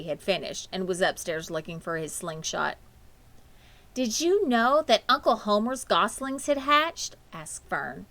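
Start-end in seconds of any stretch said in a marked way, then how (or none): 3.9-7.1 bright eager young girl voice, lightly voiced; a hint of a chirpy child; excited girl. A narrator's reading. Fern telling her parents about the goslings, eagerly. Fern's voice in read-aloud story.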